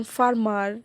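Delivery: ফার্মার slowly, both syllables equally weighted; even weight on both halves of ফার্মার; equal stress. Shown as a demonstration. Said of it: "একটার চেয়ে আরেকটা কম stress হয় নাই".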